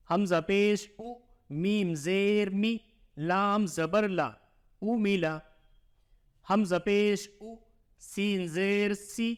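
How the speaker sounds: slow sing-song letter-by-letter reading; measured teacher's drill, syllable by syllable; Qaida spelling recitation. Shown as a demonstration. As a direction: chant each letter and vowel sign for the pupil.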